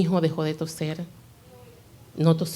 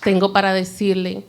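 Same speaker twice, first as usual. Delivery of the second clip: preaching call; 3 semitones higher, 6 dB louder than usual. Real, not acted. Preacher addresses congregation.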